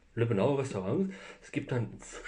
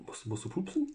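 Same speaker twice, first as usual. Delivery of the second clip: higher teasing whisper; giggly late night call; 7 semitones higher, 3 dB quieter than usual. Real, not acted. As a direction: whisper a silly question.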